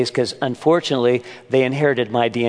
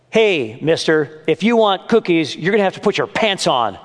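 higher-pitched mock yell of a mother; retold yell; 4 semitones higher than usual. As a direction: call out a mild scolding, pitched up. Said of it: "So she yells".

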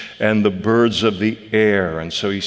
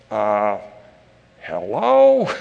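mock hello; slower than usual. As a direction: pitch it way up, as in duh. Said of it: "we look at this and go".

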